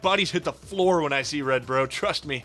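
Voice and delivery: tough-guy boasting; cocky bragging. Acted. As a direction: brag like a wannabe tough guy. Psychopath bragging skit.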